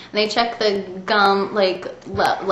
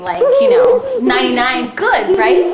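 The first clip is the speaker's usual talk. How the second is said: mock excited; 8 semitones higher, 6 dB louder than usual.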